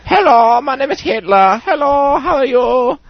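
absurd, very high squeaky voice; Hitler impression. Comic doing quick impressions for laughs, absurdly high falsetto. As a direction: squeal the greeting in a silly falsetto. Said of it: "Impressions, everybody".

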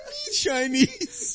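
slow, drawn-out "Me Chinese" with a rising end; mock broken English. Friend mimicking the prankster's intro, slow and drawn out. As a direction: lightly imitate the guy's broken English. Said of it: "He says".

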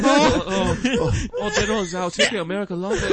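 hammed-up fake Asian accent, laughing; mock Asian accent. Podcaster riffs in a mock Asian accent, laughing. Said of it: "using an Asian accent on the show".

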